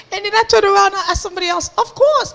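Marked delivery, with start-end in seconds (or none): 1.8-2.3 high-pitched, ready yes; imitated eager agreement. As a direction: chirp it like a willing helper. Second helper agrees in retold story.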